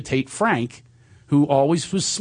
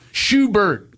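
imitating his friend; 6 semitones higher, 4 dB louder than usual. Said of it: "'cause he calls me Schubert".

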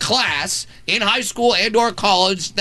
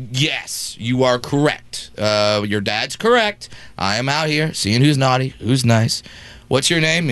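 playing Santa's helper; 5 semitones lower than usual. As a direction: confirm it solemnly for a small child.

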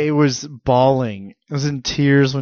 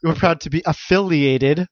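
mock sponsor line; 2 semitones higher, slower than usual. Mocking partner's sponsor line.

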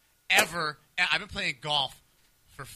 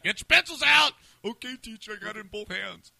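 high, loud order then a meek reply; mock teacher and pupil; 6 semitones higher, 4 dB louder than usual. Host mocking the cohost's pencil line with a teacher and pupil, high. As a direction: play a classroom exchange for laughs.

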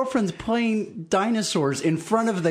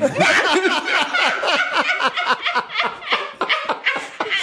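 long, high burst of laughter; big laugh. Real, not acted. Friends hearing about the homemade time machine, big laugh. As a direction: crack up in high, helpless laughter.

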